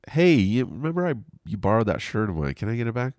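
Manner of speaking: high-pitched, light acting-out of asking; hammed-up high voice for a small favor; casual mock request. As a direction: ask it high and breezy. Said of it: "you get to the next week and you're like".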